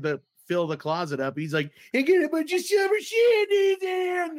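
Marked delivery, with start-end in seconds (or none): 1.9-4.4 very high, straining impression of an excited hoarder; excited mock yell. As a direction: squeal it like a hammed-up beer fanatic. Excited beer hoarder retold.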